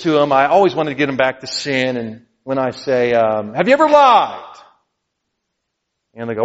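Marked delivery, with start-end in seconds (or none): 3.5-4.6 witnessing question. Retold or imitated. Quoting himself witnessing.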